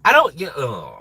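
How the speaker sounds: normal talking voice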